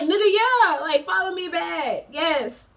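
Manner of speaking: loud, high-pitched retort, easing at the end; acted-out indignant outburst; exasperated demand. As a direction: fire back an emphatic, obvious yes. Acts out heated reply to ex.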